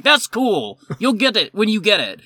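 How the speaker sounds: high-pitched mock retort; jawing back. Manager jawing at yelling customer, high mock retort. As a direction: imitate arguing back at a customer. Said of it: "I was just jawing at him".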